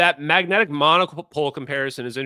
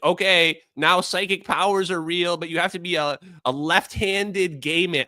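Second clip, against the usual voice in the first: mock playbook voice; 4 semitones higher than usual. Mocking the PR playbook.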